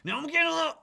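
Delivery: rising worked-up outburst; building exasperation. Real, not acted. Mounting frustration watching market.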